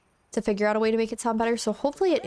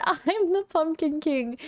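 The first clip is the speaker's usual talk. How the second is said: Jack; 6 semitones higher, slower than usual. Pretend. Reads Jack's game dialogue aloud.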